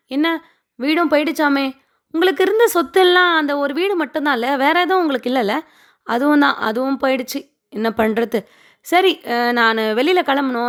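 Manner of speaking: lightly acted condescending in-law; mock concern with a haughty edge, then brush them off; retold snooty welcome, tailing into dismissal; arrogant. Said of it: "ஒரு மாதிரி திமிரா பேசிட்டு போறாரு".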